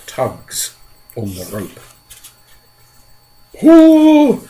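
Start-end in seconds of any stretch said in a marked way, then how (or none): 3.6-4.4 very loud, high one-word shout; shouted command. Acted. Centipede shouting to the others to haul, urgent. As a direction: bark it to the whole crew. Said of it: "shouted the old green centipede".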